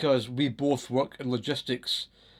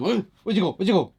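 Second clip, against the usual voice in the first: higher, louder teasing call; mock taunting; 6 semitones higher, 5 dB louder, faster than usual. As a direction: tease the hidden mice in a singsong. Taunting the vanished mice.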